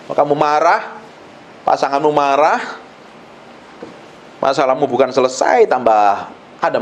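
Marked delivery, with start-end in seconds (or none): none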